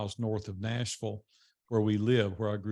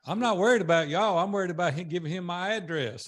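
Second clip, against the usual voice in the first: higher, laughing through the joke; laughing tease; 4 semitones higher, 3 dB louder than usual. Real, not acted. Speaker teasing the popcorn guest, laughing. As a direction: tease him while laughing. Joking about the snack guest.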